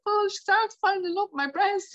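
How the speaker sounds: imitating a high-pitched wail down the phone; retold bawling. Patient rings her husband about the lump, retold bawling. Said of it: "bawling, crying".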